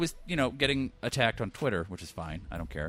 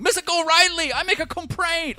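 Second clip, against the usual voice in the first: put-on high, loud caricature accent; mock Asian accent; 7 dB louder than usual. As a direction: play the old movie stereotype. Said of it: "a white guy going".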